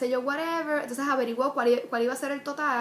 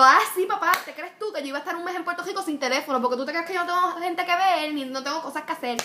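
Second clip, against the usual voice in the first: higher, louder, fast indignant retort; retold angry comeback; 4 semitones higher, 3 dB louder, faster than usual. Daughter snapping back at her father over the phone, indignant. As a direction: fire back at your dad, fast and offended.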